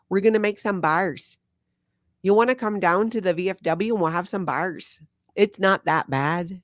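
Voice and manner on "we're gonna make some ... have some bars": light put-on Minnesota accent, a little higher; a friendly Minnesotan inviting neighbors over for bars; mock Minnesota accent. Showing viewers her local accent, a mild Minnesota impression. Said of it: "definitely the Minnesota accent".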